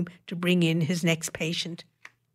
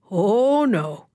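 gleeful; 3 semitones higher, 6 dB louder than usual. Acted. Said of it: "Emma thought gleefully".

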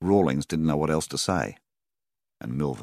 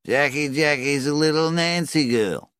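put-on high, slow, loud drunk's taunt; drunken yell; 11 semitones higher, 5 dB louder, slower than usual. A narrator's reading. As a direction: yell it out across the pub like a drunk. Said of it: "The drunk yelled out something like".

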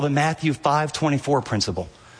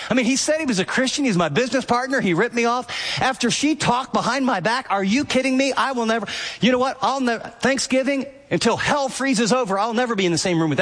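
worked-up, higher, grudging rant; indignant rant; 5 semitones higher than usual. Retold or imitated. Church member ranting about those who wronged him, indignant. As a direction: build the outrage higher and faster.

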